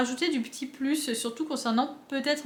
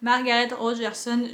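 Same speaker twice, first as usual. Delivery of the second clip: French-accented English. Real, not acted. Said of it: "mon accent anglais pourri".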